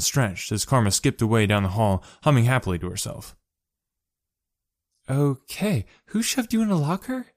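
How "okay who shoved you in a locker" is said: disapproving. A narrator's reading. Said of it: "Sho asked disapprovingly".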